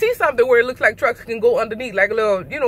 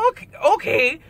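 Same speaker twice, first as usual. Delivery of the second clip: annoyed; 3 semitones higher than usual. Retold or imitated. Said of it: "I'm mad now".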